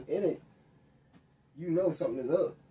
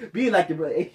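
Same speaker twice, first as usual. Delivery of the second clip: hammed-up parent, louder and laughing through it; lightly voiced lecturing parent; mock nagging parent; 7 semitones higher, 7 dB louder than usual. Mocking a stereotyped parent.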